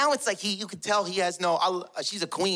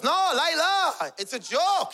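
high, drawn-out panicked husband; shaken pleading; 7 semitones higher, slower than usual. Retold or imitated. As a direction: plead nervously that you meant no harm. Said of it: "He got shook. It shook him".

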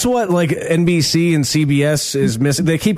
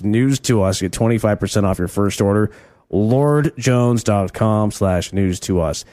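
ad read. Acted. Host reads sponsor ad.

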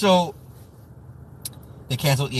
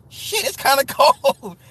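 high, drawn-out imitation of a white dude; mock white dude; 10 semitones higher, slower than usual. Comic mimics white dudes admitting the cold, high mock voice. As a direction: put on a white dude, slow and laughing. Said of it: "when the white dudes would be like".

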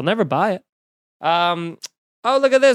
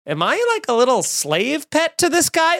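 higher, lightly voiced worried dog; voicing the dog; 8 semitones higher than usual. Owner voicing his dog's worry to listeners, lightly higher. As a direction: let the dog fret in a higher voice. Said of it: "such things as".

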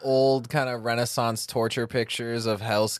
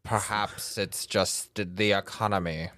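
serial killer voice. Pretend. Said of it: "my serial killer voice".

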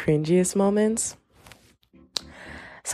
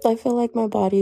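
squeaky whine; 7 semitones higher than usual. Real, not acted. Podcaster complaining her body betrays her, squeaky whine.

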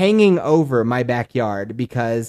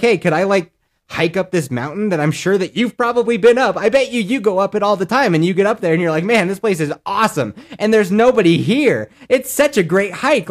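mock cheerful plea; 7 semitones higher, 4 dB louder than usual. Sarcastic imagined request to rangers.

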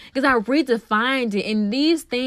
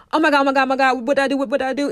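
shaky stammering panic; 4 semitones higher, 3 dB louder, much faster than usual. Retold or imitated. Past self panicking versus calm now.

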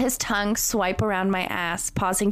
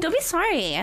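much higher, laughing repeat; 11 semitones higher than usual. Real, not acted. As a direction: repeat it while cracking up. Repeats own line laughing.

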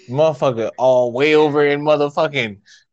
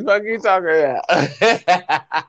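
laughing; 2 semitones higher, slower than usual. Real, not acted. Laughing slow repeat.

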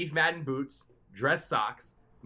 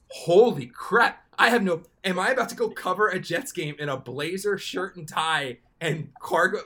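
higher, louder, slowed-down panic; panicked realization; 6 semitones higher, 7 dB louder than usual. Retold or imitated. Realizing he packed no pants, panicked outburst. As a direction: gasp it out as the horror dawns.

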